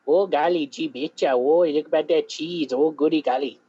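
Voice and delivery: hammed-up Southern yokel; mock Southern accent. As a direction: lay on a cartoonish Southern twang. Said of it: "I can do it better than you can".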